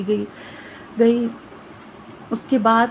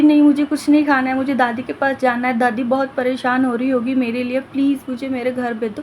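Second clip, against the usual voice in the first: agitated pleading; 3 semitones higher, faster than usual. Acted. Girl refuses food, desperate for grandmother. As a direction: push away the food, beg to go home.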